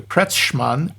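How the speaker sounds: Kretschmann said slowly, "KRETCH-mahn"; attempted German pronunciation. Shown as a demonstration. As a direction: sound out Kretschmann carefully as a German name. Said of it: "gonna pronounce this wrong too".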